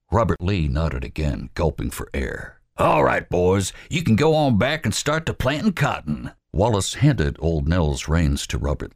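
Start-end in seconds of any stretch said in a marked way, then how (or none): 2.8-6.3 Wallace's voice. Acted. Wallace putting Albert in charge, commanding. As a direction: lay out the orders firmly.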